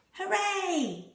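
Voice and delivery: high, bright cheer of joy; excited cheer. Acted. Hoppy the rabbit cheering at birdsong, high excited cheer. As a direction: cheer it out like a happy bunny.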